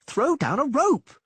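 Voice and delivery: very high, loud slow demand; yelled plea. Acted. Dandelion yells again for a rope, loud high shout. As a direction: yell it at the Reavers. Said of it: "Dandelion yelled".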